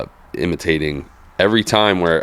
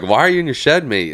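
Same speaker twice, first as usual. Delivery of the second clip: high, light Australian mate voice; a mock Aussie sim racer teasing; Australian accent; 8 semitones higher than usual. Australian racer mocking him for sitting in the shed, mild Australian accent. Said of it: "Australian dudes on there".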